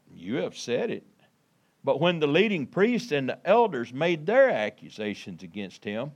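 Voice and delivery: measured, emphatic Bible reading; scripture reading. Acted. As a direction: read the verses out to a congregation. Reads scripture to congregation.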